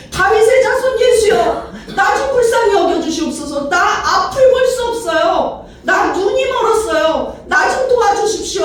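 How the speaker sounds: high, desperate pleading cry. Acted. Blind beggar pleading with Jesus for sight, desperate high outcry. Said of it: "하면서 부르짖었던 그것이".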